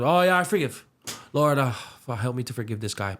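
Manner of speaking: mocking a careless, throwaway prayer; half-hearted prayer. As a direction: toss off a careless forgive-me. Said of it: "no intentionality behind it".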